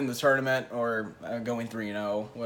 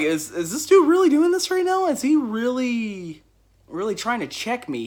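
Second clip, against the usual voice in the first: incredulous aside; 9 semitones higher, 6 dB louder than usual. Retold or imitated. Aside to friend in disbelief.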